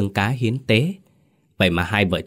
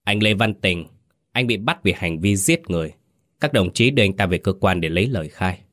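firm official arrest announcement; a hint of a stern policeman; steely voice. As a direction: state the charge sternly. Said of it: "cất giọng đanh thép".

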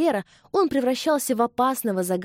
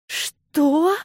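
gasped, much higher and louder; gasping; 9 semitones higher, 6 dB louder than usual. A narrator's reading. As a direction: gasp in shock. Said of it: "ахнула она". (ахнув, гораздо выше и громче)

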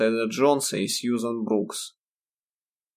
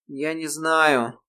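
растерянно; 6 semitones higher, much slower than usual. A narrator's reading. Испуганная Ирма, растерянно.

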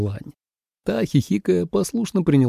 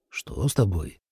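wary; 5 semitones lower, 8 dB quieter than usual. A narrator's reading. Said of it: "насторожился Лидзе".

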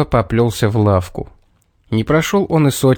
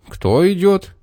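calling down; 7 semitones higher than usual. A narrator's reading. Roofer calls down from roof.

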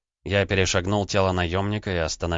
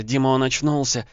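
louder, higher frightened babble; babbling; 7 semitones higher, 3 dB louder than usual. Acted. Wife calling her husband's name, panicking louder. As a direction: panic rising as she calls him. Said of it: "залепетала она".

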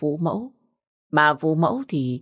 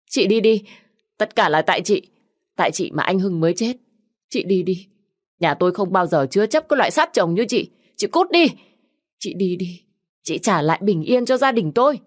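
shrill, high screaming at her sister-in-law; furious yelling; 4 semitones higher, 4 dB louder than usual. Acted. Sister-in-law screams at the widow to leave, furious. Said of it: "Nó nói xong thì ôm mặt bật khóc".

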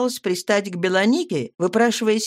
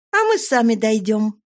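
shout; 4 semitones higher, 4 dB louder than usual. Acted. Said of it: "крикнула я".

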